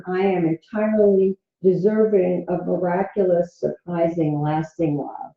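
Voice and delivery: easy, unforced mantra; said lightly. Shown as a demonstration. Coach showing how to repeat an affirmation, light and easy. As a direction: let it float out gently. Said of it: "you're going to say them lightly".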